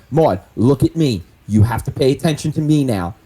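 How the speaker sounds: firm, mildly aggressive insistence. Acted. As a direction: press hard to get her attention, just short of shouting. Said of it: "I'm being, like, very aggressive".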